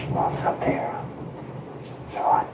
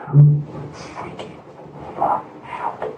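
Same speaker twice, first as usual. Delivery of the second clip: freaking out; 11 semitones higher, slower than usual. Real, not acted. Panicked retelling of the scare.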